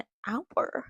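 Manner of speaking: 惊讶地反问"hour"，尾音上扬; a startled "an hour?" rising at the end; surprised double take. Real, not acted.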